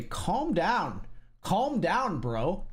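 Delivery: mock the condescending calm-down bro, lightly. To a person he made mad, mildly smug and dismissive. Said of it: "Make someone mad and then say".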